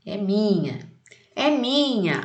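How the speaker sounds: put-on shrill-ish child claiming her doll, rising; girl fighting. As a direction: cry it out like a greedy little girl. Girl's quarrel quote in poem. (menina brigando pela boneca)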